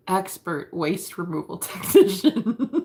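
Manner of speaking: giggling through the words; laughing. Real, not acted. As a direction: laugh while saying it. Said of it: "repeats title laughing".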